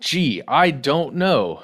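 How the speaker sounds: slow, drawn-out fake ignorance; mock cluelessness. Teasing co-host about the obvious answer, slow mock innocence. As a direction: play dumb, slowly, tongue in cheek.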